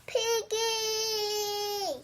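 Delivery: alarmed call. Acted. Gerald calls out to Piggie.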